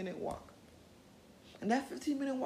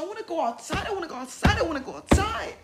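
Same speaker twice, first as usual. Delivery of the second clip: mock screaming teen; 7 semitones higher, 9 dB louder than usual. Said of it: "and screaming at you".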